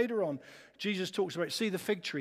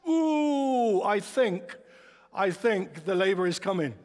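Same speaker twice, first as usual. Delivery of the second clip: imitating wife in labor; 5 dB louder, slower than usual. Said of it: "she suddenly goes".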